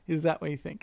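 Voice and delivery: self-mocking smug question; arrogant. Host replaying how he corrected his family, arrogant. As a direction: lightly re-enact your own condescending tone. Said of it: "I was being an arrogant prick".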